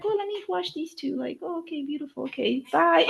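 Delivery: lightly high, airy imitation of a visitor; breezy visitor. Light imitation of a passing visitor. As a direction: toss it off like a quick polite guest. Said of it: "it was like somebody came in".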